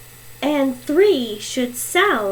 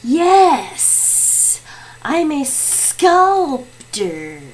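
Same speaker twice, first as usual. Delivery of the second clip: mystery guest; much slower than usual. Acted. Mystery guest confirms, slowly.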